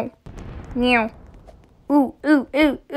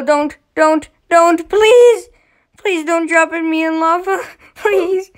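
high, louder begging with a laugh; playful pleading; 4 semitones higher, 4 dB louder than usual. Real, not acted. Player begging the giant not to drop him in lava.

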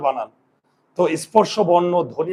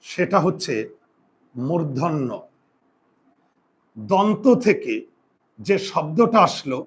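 slow teaching pace; slower than usual. Shown as a demonstration. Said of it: "এখানে একটা চমৎকার technique লুকিয়ে আছে".

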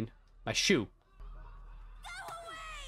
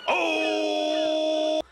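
high loud surprised cry; shocked realization, loud and high; 14 semitones higher, 4 dB louder than usual. Real, not acted. Reacts to pregnancy reveal.

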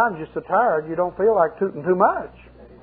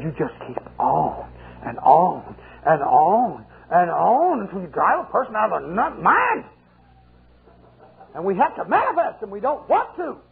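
demon whining; 3 semitones higher than usual. Retold or imitated. Demon complains about the preacher.

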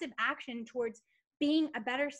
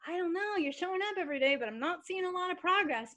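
a higher mock-doubtful murmur; doubtful inner voice; 7 semitones higher than usual. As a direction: lightly voice her private worry. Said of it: "in my head, I was like".

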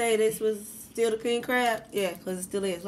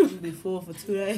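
louder, clearer repeat with a laugh. Real, not acted. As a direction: say it again so they hear. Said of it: "You said you did?".

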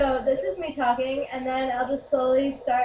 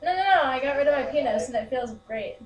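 put-on girl voice. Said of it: "my girl voice".

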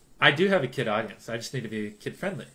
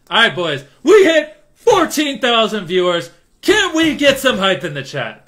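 much louder and higher hype yell; hype shout; 9 semitones higher, 14 dB louder than usual. Real, not acted. Streamer yelling to hype up fourteen thousand viewers. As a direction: pump up the crowd.

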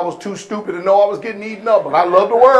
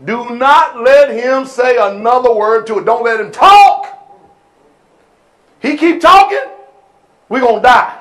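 frightened people; 3 dB louder than usual. Retold or imitated. Israel fearing God's voice.

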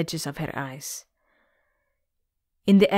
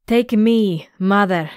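a loud call to her mother; louder calling shout; 2 semitones higher, 5 dB louder than usual. Acted. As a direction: call out to the sea monster before jumping. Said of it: "she shouted".

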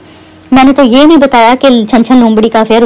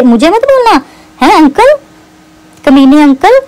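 higher, whiny mock of the sister; mocking the sister's words, pitched higher; 4 semitones higher than usual. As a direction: parrot the sister's taunts to sneer at her. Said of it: "ये तुम्हारी बहन बोलती है".

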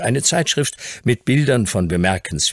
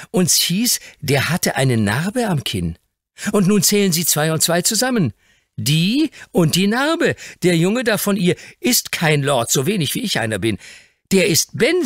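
put-on much higher, excited boy's voice; eager boy; 9 semitones higher than usual. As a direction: pile up the proof eagerly. Dick explains eagerly.

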